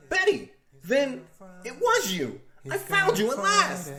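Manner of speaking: high, slow excited calling out; excited shout. Acted. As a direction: call out to her, thrilled and loud. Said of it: "He screams".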